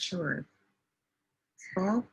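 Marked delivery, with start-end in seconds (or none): 1.8-2.1 "Sculpt-" isolated as a single syllable; syllable demonstration. Shown as a demonstration. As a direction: give just the first syllable, "Sculpt-". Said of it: "I'm typing the syllable".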